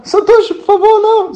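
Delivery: high, loud begging cry; desperate plea. Pretend. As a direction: beg him loudly, near a wail. Imagined pleading to the teacher. (súplica desesperada, alta e aguda)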